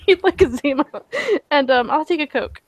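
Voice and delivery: giggling through the order; can't keep a straight face; laughing. Acted.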